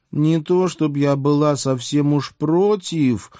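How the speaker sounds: high, drawn-out mock moan; moaning princess. A narrator's reading. Princess pinned under the narrator, moaning in a high voice. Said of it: "простонала лежащая подо мной Василиса".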